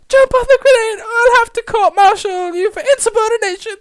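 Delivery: very high, loud, strained command; officer's barked order. Acted. Officer threatening soldier with court-martial, barked order. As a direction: shout the threat down at a subordinate.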